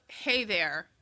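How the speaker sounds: coaching demo of a chest voice; greeting pitched slightly down into the chest. Shown as a demonstration. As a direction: show how a chest voice sounds. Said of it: "that is your chest voice".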